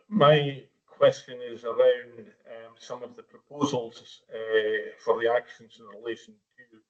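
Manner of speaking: bad mic connection dropping out; radio breaking up. Real, not acted. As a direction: voice cutting in and out, fading away. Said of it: "Your voice is coming and going".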